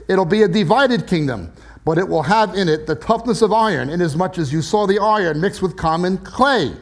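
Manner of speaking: measured, emphatic Bible reading; scripture reading. Acted. Preacher reading Daniel to the congregation, measured scripture reading. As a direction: read the prophecy out deliberately, weighting key words.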